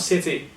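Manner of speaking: "city" with a crisp T; clear T. Shown as a demonstration. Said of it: "not city".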